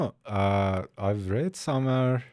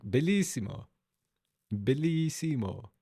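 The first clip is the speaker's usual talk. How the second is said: exaggerated Italian accent; 3 semitones higher than usual. Shown as a demonstration. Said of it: "I tried to speak in Italian accent".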